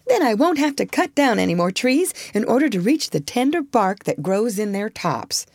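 lightly voiced eager young beaver; a hint of a cheerful youngster. Brownie voiced in story.

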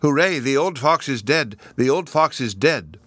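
put-on triumphant child shouting; joyful yelling at the fox's death; crying out. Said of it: "crying out".

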